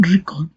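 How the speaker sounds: "record" stressed on "re"; stress on first syllable. Shown as a demonstration. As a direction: lean on the opening "re" of "record". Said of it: "the stress falls on the first syllable re".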